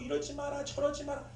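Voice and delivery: 높고 작은 소리로 살짝 흉내 낸 잔소리; lightly mimicked nagging, pitched high. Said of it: "막 잔소리하고". (잔소리하듯 높은 톤으로)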